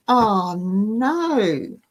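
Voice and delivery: half-groaned dismay, barely out loud. Retold or imitated. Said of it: "I almost groaned out loud".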